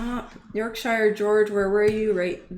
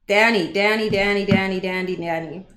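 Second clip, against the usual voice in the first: calling out. Real, not acted. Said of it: "I know you guys have heard me".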